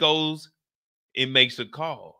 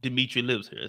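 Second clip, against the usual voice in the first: hesitant, halting stab at British; badly faked British accent; lightly put-on UK accent, unsure of it; attempted UK accent; 4 semitones lower than usual. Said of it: "I can't do a U K accent".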